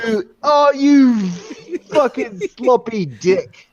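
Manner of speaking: high, loud playful yell; mock-outraged shout; loud mock insult. Real, not acted. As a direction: bellow the insult at a friend, slow at the end. Friendly insult outburst.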